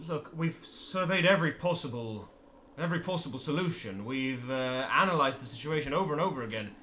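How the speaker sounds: speaker addressing crowd. Acted. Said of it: "says out to the crowd".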